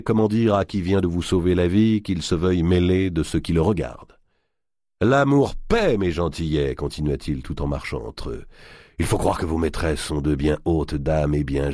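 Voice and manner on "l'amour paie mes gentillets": teasing giant voice. Acted.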